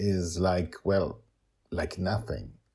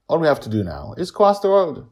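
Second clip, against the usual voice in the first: character voice; 9 semitones higher, 8 dB louder, faster than usual. Acted. Justin voiced in story.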